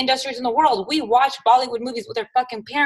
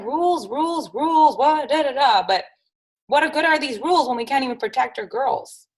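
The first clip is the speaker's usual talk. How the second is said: angry; 5 semitones higher than usual. Real, not acted. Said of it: "so angry about this situation".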